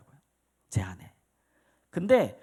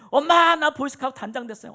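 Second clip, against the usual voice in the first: put-on excited child; 9 semitones higher, 7 dB louder than usual. Boy announcing good news to mother.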